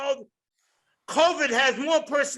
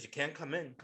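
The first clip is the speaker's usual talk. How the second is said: doctor refusing; 9 semitones lower, 15 dB quieter than usual. Retold or imitated.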